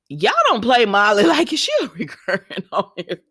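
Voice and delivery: whispered, breaking into giggles; a giggly whispered aside; laughing whisper. Real, not acted. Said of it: "laughing aside".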